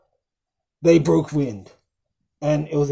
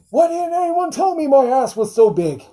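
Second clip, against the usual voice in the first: squeaky put-on voice, much higher and louder; President Scrooge impression; 11 semitones higher, 6 dB louder than usual. Quoting the reversed president in a much higher, louder silly whine. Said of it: "President Scrooge, played by Mel".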